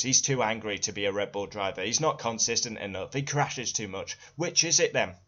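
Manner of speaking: normal talking voice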